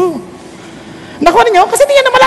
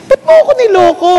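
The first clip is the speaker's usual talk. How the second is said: quick, higher-pitched accusing question; mildly heated mock confrontation; angry Jacob; 5 semitones higher, faster than usual. Jacob demanding why he was fooled, angry. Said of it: "galit na galit siya".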